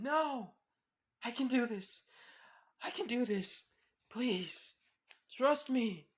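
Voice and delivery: high, loud insistent yell; defiant shout. Acted. Eri shouts high and loud at her mother to trust her. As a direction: shout back that you can do this.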